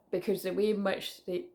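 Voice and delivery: talking through hiccups; hiccuping between words. Real, not acted. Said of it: "I'm already hiccuping".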